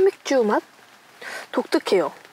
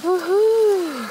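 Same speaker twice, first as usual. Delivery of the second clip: excited whoop; 8 semitones higher, 4 dB louder, much slower than usual. Real, not acted. Cheer at finished dish.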